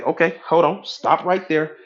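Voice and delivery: lightly acted gatekeeper calling a stop; gatekeeper critical mind. Critical mind halting a new idea at the gate, gatekeeper voice. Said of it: "The critical mind is gonna say".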